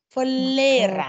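เฟลเลรา with a separate เฟ before เล; pronunciation demo. Shown as a demonstration. Teacher models a word for students, clearly sounded out. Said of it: "นักเรียนพูดคำว่า เฟ".

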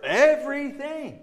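loud, high, drawn-out EVERYTHING; emphatic interruption. Acted. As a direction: cut in insistently, stretching everything out high and loud. Cuts off objection, insisting everything.

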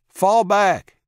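urgent battlefield shout; yelled order. A narrator's reading. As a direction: call the retreat over gunfire. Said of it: "he yelled".

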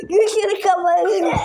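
slow, laughing yell; laughing shout. Real, not acted.

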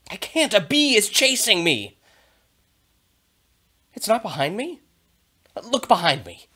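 high, loud, panicky cartoon dog; excited dog Murphy. Teacher reading Murphy for students, high and frantic. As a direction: play the frantic dog, yelling and squealing. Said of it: "I will be the character Murphy".

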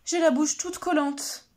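panicked badger. Badger panics when Turtle asks for a kiss. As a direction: flap about like a startled badger. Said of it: "s'affole Blaireau".

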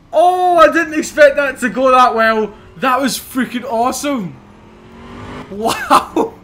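buzzing, high and loud; hyperactive. Real, not acted. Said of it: "Sorry if I'm slightly hyperactive".

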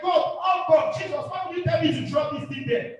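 lightly acted apostle questioning a strange order; protesting apostles. Apostles question Jesus over dropping the net, mildly protesting. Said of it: "Peter and all those apostles".

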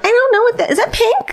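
high-pitched clueless mock reply; squeaky, hammed-up confusion; oblivious humans. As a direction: play dumb in a high voice.

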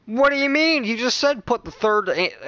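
arguing with friend over the outfit, high and loud; indignant disbelief. Real, not acted. Friend contradicts outfit instruction.

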